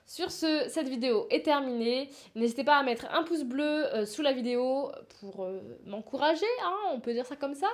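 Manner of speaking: stuffy blocked-nose voice. Real, not acted. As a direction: talk through a blocked nose. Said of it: "J'ai le nez bouché".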